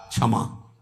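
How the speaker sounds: breathy whisper, one word; whispered answer. Acted. Answers his own question 'क्या?'. (फुसफुसाकर उत्तर)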